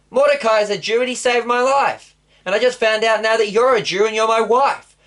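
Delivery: the king reeling at the news, voice up high; outraged king. Acted. King to Esther, hearing of the plot, high outraged disbelief.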